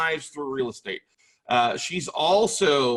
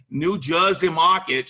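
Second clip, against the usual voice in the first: hammed-up New Jersey accent; horrible New Jersey accent; 4 semitones higher, 6 dB louder, slower than usual. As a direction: put on a bad, exaggerated Jersey accent. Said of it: "sorry, that's my horrible accent".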